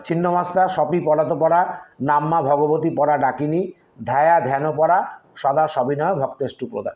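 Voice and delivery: rhythmic Sanskrit verse; steady devotional chant; mantra recitation. Shown as a demonstration. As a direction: recite it like a prayer, evenly.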